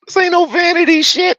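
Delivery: loud, high-pitched excited brag. Real, not acted. Streamer bragging about the tag to viewers, very excited. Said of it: "He's very excited".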